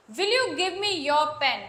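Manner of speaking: slow, deliberate English example; slow demo. Shown as a demonstration. Teacher reading a plain request slowly to students. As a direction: spell out each word for the class. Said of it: "मैं normal ही किसी से request कर रही हूँ".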